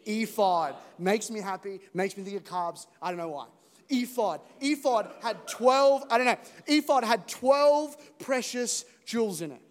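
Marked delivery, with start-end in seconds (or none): 0.0-0.8 louder call of Ephod; louder group callout of Ephod; ephod on cue. Shown as a demonstration. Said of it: "On the count of three". 3.9-9.6 louder playful relish of the word Ephod; playful emphasis. Real, not acted. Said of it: "a fun word to say".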